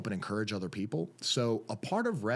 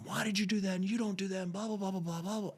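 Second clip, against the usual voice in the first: high-pitched imitation of nagging parents; mimicked angry parents, pitched up; mock yelling; 8 semitones higher than usual. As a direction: scold without real volume, trailing into blah-blah. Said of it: "they're just yelling at him".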